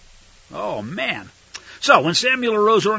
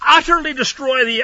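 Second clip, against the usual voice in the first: utterly, higher and hammered; stress on utterly; 7 semitones higher, 4 dB louder than usual. Acted. Preacher repeating God's order, stress on utterly. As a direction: hit utterly hard. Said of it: "Let me say that again".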